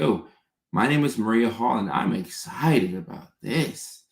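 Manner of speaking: varied, lively pitch with a slowed ending; inflected demo. Shown as a demonstration. Advising a viewer, lively inflected demo. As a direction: show how to add inflection when excited. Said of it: "So if you're excited about something, say".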